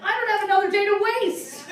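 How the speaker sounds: loud, high, laughing protest; exasperated shout. Retold or imitated. To the boyfriend, a loud laughing protest. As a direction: yell it out, half laughing. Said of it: "I'm like".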